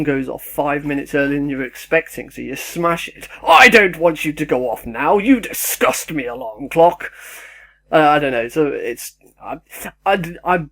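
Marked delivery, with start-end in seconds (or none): 3.5-7.1 louder, hammed-up scolding of the alarm clock; mock disgust at the alarm. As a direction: pretend to be outraged at a clock, louder.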